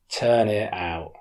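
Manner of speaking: slow, deliberate order, no room for argument; firm command. Acted. The policeman firmly orders Santo to empty the locker. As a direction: lay down the order firmly and slowly.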